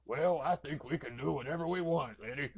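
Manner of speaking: lightly voiced Venom, a touch sly; a hint of the monster, half-hearted. Venom answers Eddie in a lightly put-on monster voice. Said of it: "I'm gonna do so much Venom voice".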